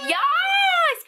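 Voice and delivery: high, thrilled cheer; a squeal of joy; excited. Real, not acted. Excited about K-beauty item.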